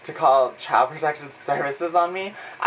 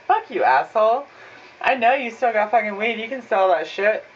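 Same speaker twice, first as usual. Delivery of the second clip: inner fury; 5 semitones higher than usual. Retold or imitated. Stoner cursing the dealer in his head, mock angry. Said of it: "in my head, I was like".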